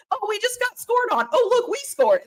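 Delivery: high, laughing fan rollercoaster; mock fan swings. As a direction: play the fan riding the ups and downs. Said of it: "roller coaster of emotions".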